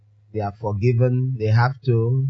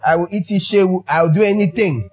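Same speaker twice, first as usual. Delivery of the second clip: playful defiance; 6 semitones higher than usual. Acted. Defiant pastor retort.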